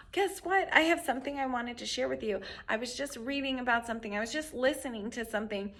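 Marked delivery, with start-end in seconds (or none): 0.1-2.4 excited teaser. Shown as a demonstration. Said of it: "on a normal day when everybody's happy".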